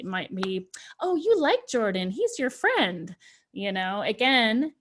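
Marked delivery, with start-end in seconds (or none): 1.0-3.1 high, coaxing grown-up contradiction; typical adult response. Acted. Parent responding to an upset child, coaxing and dismissive. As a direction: talk the child round, drawing out the end. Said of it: "a typical parent or adult or a teacher response".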